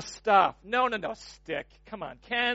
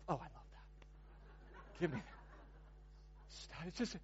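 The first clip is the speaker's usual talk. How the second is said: laughing; 6 semitones lower, 21 dB quieter, slower than usual. Real, not acted. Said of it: "laughing delight at accent".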